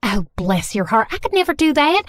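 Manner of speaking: put-on lightly done Southern mom accent, gushing apology; a hint of a fussy Southern mother. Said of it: "speaking in a thick Southern accent".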